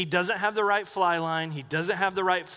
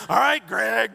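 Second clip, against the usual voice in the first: cheerful call; 4 semitones higher, 7 dB louder than usual. Retold or imitated. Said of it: "I didn't say it that way".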